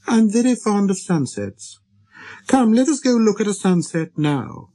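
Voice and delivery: put-on high child-prince voice; little prince, eager. A narrator's reading. Little prince inviting the pilot to a sunset, eager.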